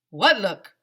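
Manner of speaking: a loud, baffled question; mock baffled boy; confused what look. A narrator's reading. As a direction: demand to know.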